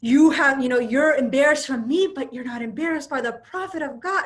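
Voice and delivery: indignant retelling of an angry man's rebuke; retold indignation. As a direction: act out an incredulous telling-off, raising the volume. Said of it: "gets even more mad".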